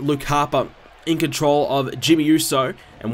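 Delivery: live ringside play-by-play; wrestling commentator. Acted. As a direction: call the match like a TV announcer. Live play-by-play of game match.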